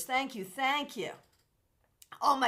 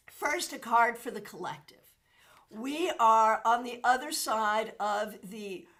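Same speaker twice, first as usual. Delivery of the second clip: whisper. Acted. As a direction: hush your voice to share the card. Card reading for the collective.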